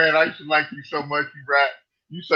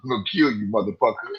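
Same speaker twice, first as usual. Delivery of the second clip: low, a touch softer imitated thug; mock threat; 6 semitones lower, 4 dB quieter than usual. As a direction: lightly voice a menacing caller. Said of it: "told me he was gonna kill me".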